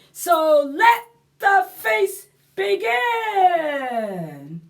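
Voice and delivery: high, slow, whiny pumpkin telling its woes; storybook lament, high and drawn out; sad pumpkin voice. Acted. Story ending in read voice.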